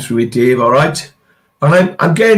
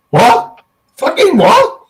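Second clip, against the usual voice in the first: shocked disbelief; 9 semitones higher, slower than usual. Retold or imitated. Shocked reaction to suicidal remark.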